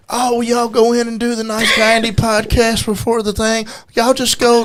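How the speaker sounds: mock officials. Host imitates the officials sending them to the podcast, lightly mimicked. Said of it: "they said".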